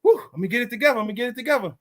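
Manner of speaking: mild psyching-up, said to himself; pumping himself up. Retold or imitated. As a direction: blow out, then rally yourself. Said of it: "pumping myself up".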